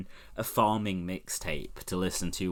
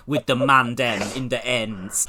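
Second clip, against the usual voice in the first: London slang impression; 5 dB louder than usual. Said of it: "a rapper's like".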